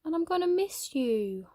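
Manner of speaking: slow, high and tearful; emotional confession. Acted. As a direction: blurt it out, choking up.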